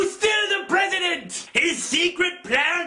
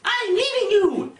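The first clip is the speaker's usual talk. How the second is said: higher-pitched mock girlfriend voice; imitated woman breaking up; 4 semitones higher than usual. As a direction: declare it in a raised, put-on woman's voice. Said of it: "she's all like".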